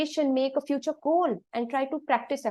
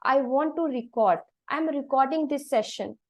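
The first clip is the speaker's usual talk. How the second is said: "re-CORD", weight on the last syllable; verb stress on "record". Shown as a demonstration. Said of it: "we say like this".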